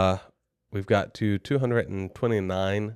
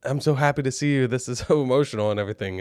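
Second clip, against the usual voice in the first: imitating tearful wife; 4 semitones higher, faster than usual. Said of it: "she starts crying and she's like".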